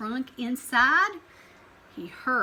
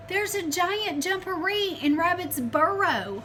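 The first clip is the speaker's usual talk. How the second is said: higher, urgent report; alarmed telling; 7 semitones higher, 4 dB louder than usual. Acted. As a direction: blurt it out scared.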